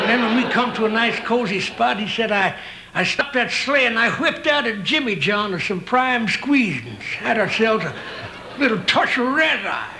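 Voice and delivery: a hint of a grizzled ranch hand; old Western cowboy. Old cowboy reminiscing to his pal.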